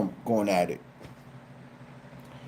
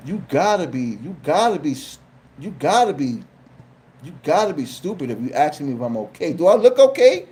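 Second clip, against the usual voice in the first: incredulous. Retold or imitated. Side eye at neighbor.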